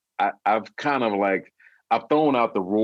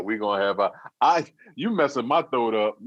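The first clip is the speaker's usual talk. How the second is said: ordinary talk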